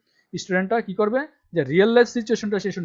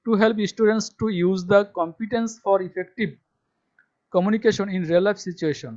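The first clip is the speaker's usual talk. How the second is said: slow dictation reading; much slower than usual. Shown as a demonstration. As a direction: spell it out slowly for students to copy. Reading syllabus text aloud. (ধীরে ধীরে জোরে পড়ে শোনানো)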